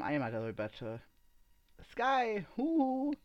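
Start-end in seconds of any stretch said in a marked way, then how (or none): 1.9-3.1 high, sing-out hello to a friend; bright-spirited high-pitched hail; enthusiastic call. A narrator's reading. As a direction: call out excitedly to get his attention. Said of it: "rief sie begeistert".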